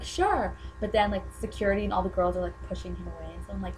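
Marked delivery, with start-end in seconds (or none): 0.0-0.5 lightly imitated British accent; higher-pitched take on a cute British accent; Harry. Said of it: "In, like, his cute accent".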